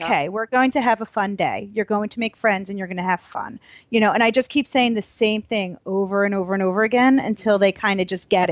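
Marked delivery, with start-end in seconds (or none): 0.1-3.6 reassuring. Shown as a demonstration. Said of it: "those are the words I'm gonna use".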